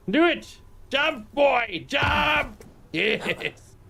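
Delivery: cheering on pet. Real, not acted. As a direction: urge the pet to jump.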